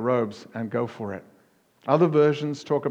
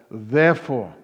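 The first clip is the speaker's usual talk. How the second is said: a loud, weighty "Therefore"; raised voice; 6 dB louder than usual. Retold or imitated. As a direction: lift the voice and declare "Therefore". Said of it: "elevating his voice".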